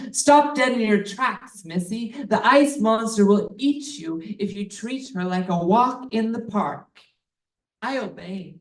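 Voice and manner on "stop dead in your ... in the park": a guide's mild holler of warning. Retold or imitated. Tour guide hollering at a hiker to stop. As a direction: call out a sharp warning. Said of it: "Our tour guide hollers".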